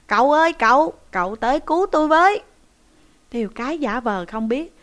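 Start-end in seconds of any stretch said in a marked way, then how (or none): 0.1-2.4 high, loud, hurried cry for help; calling out loudly. Acted. Captive shouting to his pretend uncle for rescue, high loud cry. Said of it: "kêu to lên rằng".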